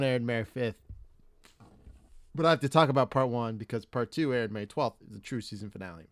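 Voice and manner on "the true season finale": talking through a beer burp; burping the words. Real, not acted. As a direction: burp while saying it. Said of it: "Sorry about that beer burp".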